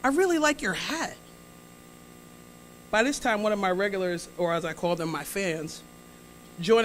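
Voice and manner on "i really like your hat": put-on old lady voice. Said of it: "She says to me".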